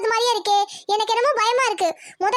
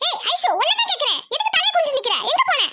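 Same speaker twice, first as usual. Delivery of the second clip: rising interrogation; 6 semitones higher than usual. Acted. Mother interrogates daughter.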